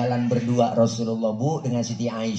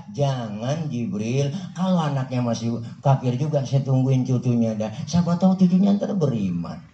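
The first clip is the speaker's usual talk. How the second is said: patient refusal. Acted. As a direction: gently hold Jibril back. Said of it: "Ini kalau bahasa kita begitu".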